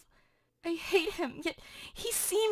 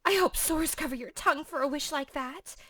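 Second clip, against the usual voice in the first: indignant Juliet, at her usual volume; Juliet rebuking; 5 semitones lower than usual. Acted. Juliet scolds the nurse, indignant. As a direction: scold the nurse for cursing Romeo.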